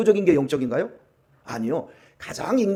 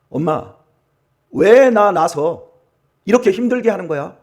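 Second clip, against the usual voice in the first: put-on angry child's reproach; 3 dB louder than usual. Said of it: "부모에게 화를 내면서". (부모에게 화내며 따지는 자식을 흉내 내듯 길게 늘여서)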